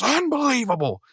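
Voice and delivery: high, mock exasperated; a lightly voiced Benson sighing it out. Reviewer voicing Benson arriving at the park, high and mock. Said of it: "he goes".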